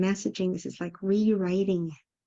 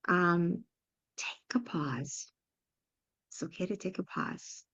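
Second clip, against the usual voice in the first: whispered pause; 4 dB quieter than usual. Shown as a demonstration. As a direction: breathe it out as a gentle whisper. Slowing down, demonstrating a pause.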